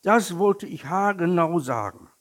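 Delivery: high, loud, emphatic agreement; excited calling out. A narrator's reading. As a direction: exclaim it as the delighted little tiger. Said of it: "rief der kleine Tiger". (laut und begeistert gerufen)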